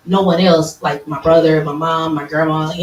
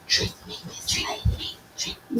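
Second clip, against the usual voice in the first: whisper; 12 dB quieter than usual. Pretend. Champagne personified whispering to her.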